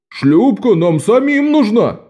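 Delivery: yelling. A narrator's reading. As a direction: shriek it out, outraged at losing the boat. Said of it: "завопил Мазука". (Мазука вопит, возражая против шлюпки)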